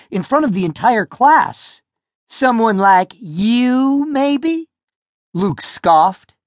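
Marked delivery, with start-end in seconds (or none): 2.3-4.7 sneering bully. A narrator's reading. Luke sneering at Roger.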